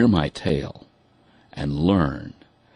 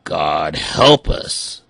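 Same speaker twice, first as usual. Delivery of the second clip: exasperated exclamation; 4 dB louder, much slower than usual. Acted. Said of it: "exclaimed a".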